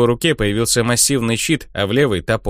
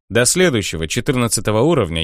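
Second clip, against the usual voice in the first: plain reading voice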